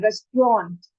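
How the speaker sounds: "रेस्टोरेंट" as RES-tront; correct pronunciation. Shown as a demonstration. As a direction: say "रेस्टोरेंट" in two syllables, ending with an O sound. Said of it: "ओ का sound आएगा". ("रेस्टोरेंट" को रेस्ट्रॉन्ट बोलें)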